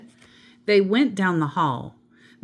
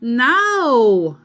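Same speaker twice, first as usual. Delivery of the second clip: louder, higher firm "No"; 6 semitones higher, 7 dB louder than usual. A narrator's reading. Amelia Bedelia refusing the children's cry for more, loud and firm. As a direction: turn the children down firmly. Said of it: "said Amelia Bedelia".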